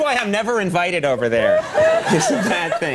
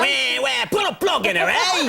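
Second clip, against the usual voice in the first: higher, hammed-up cockney put-on; lightly playing a chimney sweep Brit; a hint of a silly British nanny; mock English accent; 8 semitones higher than usual. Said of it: "No one really talks like that".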